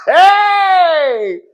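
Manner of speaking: sudden loud high laughing shout; squealing hey through laughter; laughing yelp. Real, not acted. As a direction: whoop it out mid-laugh. Laughing outburst at the gossip.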